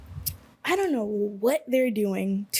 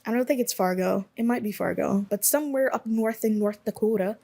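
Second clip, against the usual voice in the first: put-on awful Midwest accent. Placing a band from North Dakota, mock Midwest accent.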